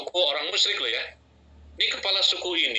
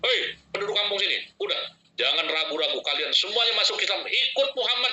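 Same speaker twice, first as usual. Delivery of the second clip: mock calling out; 4 semitones higher than usual. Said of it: "dia teriak-teriak".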